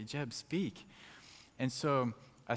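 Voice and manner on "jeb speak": softly voiced, tender nudge; gentle prompting. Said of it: "just very gently again just say".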